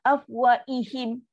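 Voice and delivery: "afwaihim" slow, the ha turned into a hamzah; h dropped to hamzah. Shown as a demonstration. Teacher shows the wrong reading where ha becomes hamzah. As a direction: glide through "afwaihim" with no h. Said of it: "Dah tukar huruf lain".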